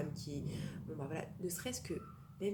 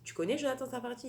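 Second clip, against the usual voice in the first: high-pitched, curious asking; imitated eager question; 7 semitones higher, 4 dB louder than usual. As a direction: mimic a chatty driver fishing for a connection. Translates the driver's eager question.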